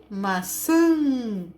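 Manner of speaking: MAÇÃ with a long nasal final vowel; som nasal demonstrado. Shown as a demonstration. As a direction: hold the nasal "ã" at the end of "maçã". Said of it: "por tio". ("maçã" com o "ã" nasal alongado)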